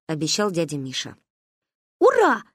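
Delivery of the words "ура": high happy whoop; joyful cheer. A narrator's reading. Girls cheer at the promise of lemonade. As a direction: cheer like delighted kids. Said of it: "обрадовались мы".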